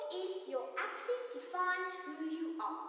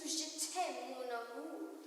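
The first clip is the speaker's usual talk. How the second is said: French romance; 3 semitones lower, 5 dB quieter, slower than usual. Retold or imitated. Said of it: "The French seduced us".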